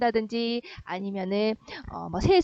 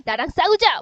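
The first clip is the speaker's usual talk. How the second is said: mock challenge; 4 semitones higher, 5 dB louder than usual. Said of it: "뭐 이런 애가".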